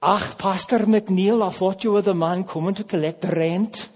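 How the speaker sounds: put-on a light, slowed Scots old lady accent with a laugh; lightly voiced Scottish widow, amused. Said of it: "in her best Scots accent".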